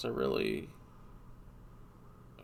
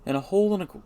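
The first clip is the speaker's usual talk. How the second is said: Gandalf voice; 7 semitones higher, 8 dB louder, much faster than usual. Shown as a demonstration. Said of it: "let's try that again".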